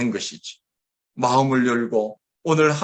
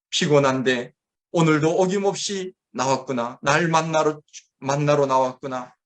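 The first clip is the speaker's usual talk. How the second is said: encouraging. Retold or imitated. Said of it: "하나님이 여러분들을 격려해 주실 것입니다".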